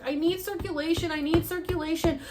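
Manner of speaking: high insistent chant building to a loud yell; re-enacted frantic demand, exploding at the end. Patient kicking her legs for circulation, acted frustrated yelling. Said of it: "And I'm, like, yelling".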